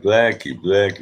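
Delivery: lightly voiced father, near own pitch; a hint of a dad calling a name; retold father, only lightly put on; dad's voice. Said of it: "And my dad was smart. He, he was like".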